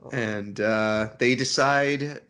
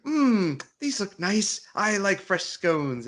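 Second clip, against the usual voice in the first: put-on old abbot voice; 8 semitones higher, slower than usual.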